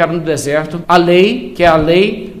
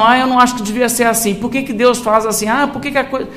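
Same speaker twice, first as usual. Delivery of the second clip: higher, lightly voiced mock complaint; imitated murmuring; 5 semitones higher than usual. Preacher imitates people questioning God's decisions, mild mock grumbling. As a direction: mimic a grumbler questioning God, trailing off unfinished. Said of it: "Murmuração".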